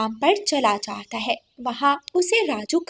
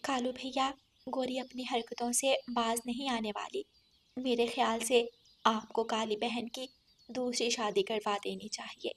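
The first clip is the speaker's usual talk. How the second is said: softer, earnest advice; earnest sparrow; 7 dB quieter than usual. Acted. Sparrow advises brother to remarry his sister, soft. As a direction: counsel him quietly.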